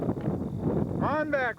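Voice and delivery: calling out. Real, not acted. Calling someone back across sand.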